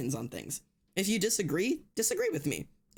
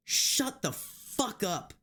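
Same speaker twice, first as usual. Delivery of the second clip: slow disgusted snap; 4 semitones higher, much slower than usual. Real, not acted. Ranting at someone intruding on community.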